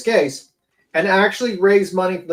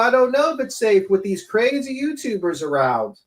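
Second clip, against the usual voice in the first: higher-pitched fake worry; mock concern; 5 semitones higher than usual. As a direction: imitate someone feigning concern. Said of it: "basically said".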